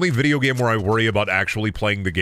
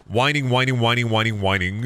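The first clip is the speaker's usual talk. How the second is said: mock whining; 4 semitones higher than usual. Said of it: "I'm just being a whiner".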